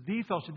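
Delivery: emphatic "the", pronounced "thee"; single out "the" with a long "thee" before the noun; stress on "the". Shown as a demonstration. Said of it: "there's a definite article".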